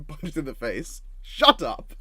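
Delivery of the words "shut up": loud, high punchline yell; mock shout. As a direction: bark it as a mock superhero. Acted punchline of the bit.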